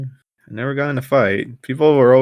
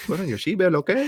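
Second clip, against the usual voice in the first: higher, put-on Hispanic accent; a jokey fake Hispanic accent, softer; mock Hispanic accent; 7 semitones higher, 4 dB quieter, faster than usual. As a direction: play a deliberately bad Hispanic accent. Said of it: "a Hispanic ass accent".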